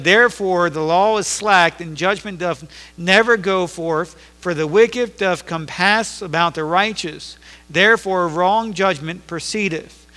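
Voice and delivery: pastor reading the prophet's lament to the congregation, slow and solemn; scripture reading. Acted. Lift each old word out slowly. Reads scripture in King James.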